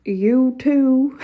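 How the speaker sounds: imitating a southern drawl on YOU TOO; mock southern accent. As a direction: mimic his southern accent, drawing out both words. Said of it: "have to talk like that".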